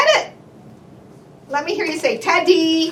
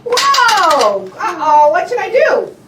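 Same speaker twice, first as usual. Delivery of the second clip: louder, higher whoa and uh-oh; hammed-up worry; mock alarm; 4 semitones higher, 4 dB louder, slower than usual. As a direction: play up the accident for the child. Mock alarm toy falls.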